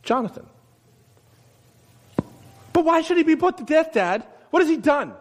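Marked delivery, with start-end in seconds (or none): 2.7-5.1 pleading son. Acted. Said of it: "Jonathan asked his father".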